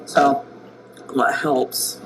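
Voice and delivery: talking while chewing gum; words round a wad of gum. Real, not acted. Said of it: "Sorry, I've gum in my mouth".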